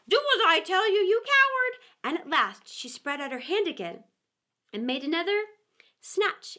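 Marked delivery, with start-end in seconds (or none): 0.1-1.8 high, louder scornful repeat; angry rabbit. A narrator's reading. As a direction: throw his words back at him, annoyed. Rabbit scolds Pat.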